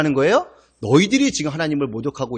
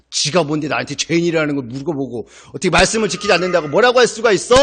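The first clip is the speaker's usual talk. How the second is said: mock angry crowd. Pastor voicing the angry crowd, a touch of indignation. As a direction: voice the crowd's offended grumbling. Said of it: "화가 난 거죠".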